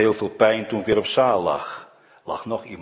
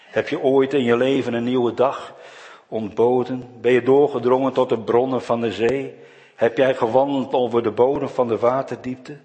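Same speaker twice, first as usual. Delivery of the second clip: raised, louder voice of a challenging God; God challenging Job; 5 semitones higher, 4 dB louder than usual. Acted. God booming his challenge at Job. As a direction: thunder the questions down at Job.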